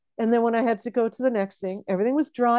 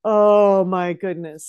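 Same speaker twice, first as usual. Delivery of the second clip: delighted; 5 dB louder, slower than usual. Real, not acted. Delighted at book opening sound.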